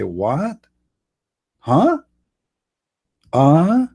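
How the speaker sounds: a startled fiancée who can't follow; shocked. Acted. Fiancée caught off guard by the riddle, baffled. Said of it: "like, shocked".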